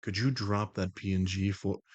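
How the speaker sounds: low, even request in a put-on voice; composed, matter-of-fact request in a low voice; The Voice, first attempt. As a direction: ask it levelly in the controlled persona. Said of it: "let me say that better".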